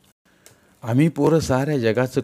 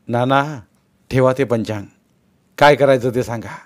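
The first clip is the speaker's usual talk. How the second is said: urgent command; 3 semitones higher, 5 dB louder than usual. Acted. Tukaba urges Nana to act.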